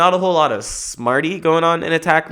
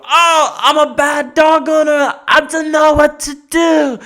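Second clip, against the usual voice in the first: high, loud, whiny helpless owner; hammed-up falsetto dithering owner; flustered dog owner; 14 semitones higher, 6 dB louder, slower than usual. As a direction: squeal like a useless owner in a panic. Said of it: "the dog owner would go".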